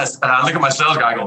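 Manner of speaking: normal talking voice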